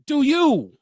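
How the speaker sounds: high mock wife voice; teasing impression of the wife; mimicking wife. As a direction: toss it off like his wife. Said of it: "My wife every time say".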